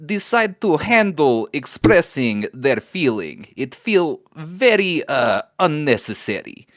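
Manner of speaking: put-on deliberate, accented character voice; measured, stern reproof in broken English; impatient Koski. Koski lifting Kellen by the cloak, scolding with strained patience.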